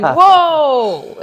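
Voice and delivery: high, loud, drawn-out astonishment; acted-out stunned cry; amazed reaction. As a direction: react as if blown back. Retold amazement at the count.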